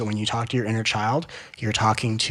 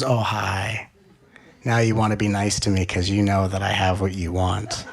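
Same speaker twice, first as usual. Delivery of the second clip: put-on unimpressed child; 4 semitones lower than usual. Child's smug reply to greeting.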